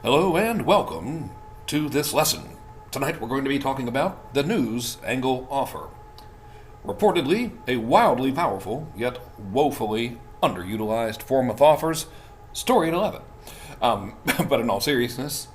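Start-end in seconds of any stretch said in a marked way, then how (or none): 0.0-5.9 smooth evening news anchor delivery. Shown as a demonstration. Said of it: "I kinda sounded like a news anchor person". 6.8-13.2 news anchor voice. Shown as a demonstration. Parody news teaser.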